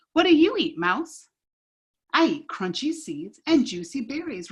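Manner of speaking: lively read-aloud with paced character lines; storybook read-aloud. Acted. Teacher reading a picture book to kids, animated. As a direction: tell the story to a circle of kids.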